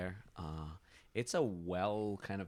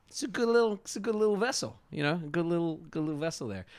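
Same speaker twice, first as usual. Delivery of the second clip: hearty sailor voice; 10 semitones higher, 8 dB louder, faster than usual. Acted. GM praising the ship.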